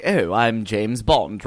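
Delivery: drawn-out, understated suave Bond; slowly, lightly putting on a refined English Bond; proper English Bond. Retold or imitated. Podcaster contrasting two English Bonds, proper and unhurried. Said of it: "he's a lot more like".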